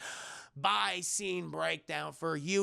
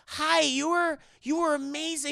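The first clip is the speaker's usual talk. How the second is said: put-on high, gushing girl's voice; high-pitched acted admiration; imitated admirer; 8 semitones higher, 5 dB louder than usual. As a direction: greet your hero in a raised voice. Voicing admiring girl.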